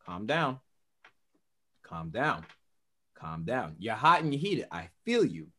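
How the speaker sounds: put-on low, soft, calming old lady; old grandma voice. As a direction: soothe him down like a grandma. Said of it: "Need that old grandma voice".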